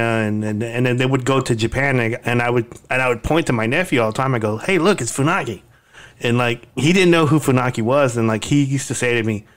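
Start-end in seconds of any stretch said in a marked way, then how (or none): 4.6-5.6 mock-excited, higher-pitched pointing out; teasing call-out. Uncle pointing out the announcer to nephew, teasing call-out. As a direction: call it out playfully, a little higher.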